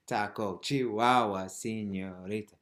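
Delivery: rhythmic count with a loud "Chihuahua"; emphasis on the beat. Shown as a demonstration. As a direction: hit "Chihuahua" hard, then ease off on "señorita". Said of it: "keep the emphasis on the foot".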